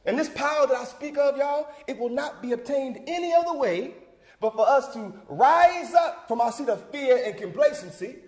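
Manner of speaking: forceful oratory, building at the end; rousing call to action. Acted. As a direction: urge the crowd to rise and act. Closing call to register.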